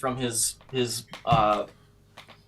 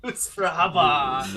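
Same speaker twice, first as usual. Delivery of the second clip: laughing quote; 2 semitones higher than usual. Acted. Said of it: "And he's like".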